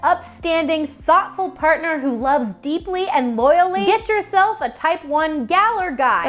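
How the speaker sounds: lightly hyped infomercial pitch. Acted. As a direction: sell it like a TV ad host. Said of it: "That sounded like an infomercial".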